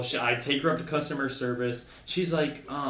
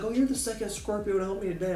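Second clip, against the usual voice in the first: put-on very old woman; 7 semitones higher, 6 dB quieter, faster than usual. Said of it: "She's like".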